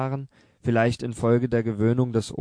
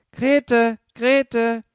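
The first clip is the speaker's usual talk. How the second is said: high, loud call across the flat; frantic shout; 12 semitones higher, 8 dB louder than usual. A narrator's reading. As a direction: scream the daughter's name in panic. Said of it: "schrie sie dann". (die Mutter ruft ihre Tochter Grete: hoch, laut, panisch)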